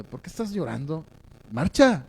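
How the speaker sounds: lightly acted exasperated complaint, kept soft; mock reproach. God who comes to reproach and complain, mildly scolding. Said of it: "te reproche y te reclame".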